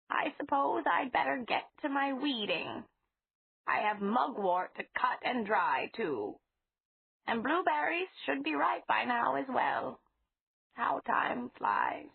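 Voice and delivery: a hint of an anxious grandmotherly voice; old lady, fretful. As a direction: gently fret over him like a fond elderly landlady. Mrs Flowers voiced in story.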